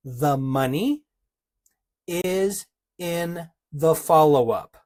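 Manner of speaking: slow, deliberate, with a long pause after MONEY. Shown as a demonstration. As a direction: spell out "The money... is in the follow-up" word by word. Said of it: "I'm gonna say it again, but slower".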